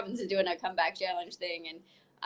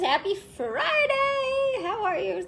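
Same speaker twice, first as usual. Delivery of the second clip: excited; 12 semitones higher, 4 dB louder, much slower than usual. Real, not acted. Cheery greeting on camera.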